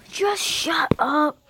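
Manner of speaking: slow whispered shut up. Acted. State kid whispering at the others after the fight. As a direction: hiss it slowly under the breath.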